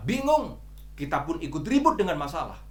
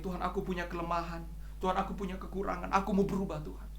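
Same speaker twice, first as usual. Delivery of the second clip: humble prayer; 5 dB quieter than usual. Retold or imitated. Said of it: "orang-orang ini".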